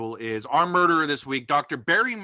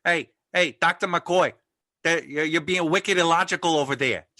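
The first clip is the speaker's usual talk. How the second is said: light mock Boston accent, a bit louder; playful Boston stereotype as Spock; 2 semitones higher, 3 dB louder than usual. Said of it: "wicked cool Boston stereotypes".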